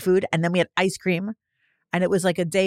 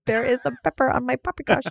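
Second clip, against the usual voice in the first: higher, prissy complaint to the waiter; mock fancy complaint; 6 semitones higher than usual. Co-host complains to a pretend waiter in a mock prissy voice. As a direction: complain like a fussy fine diner. Continuing fancy diner bit.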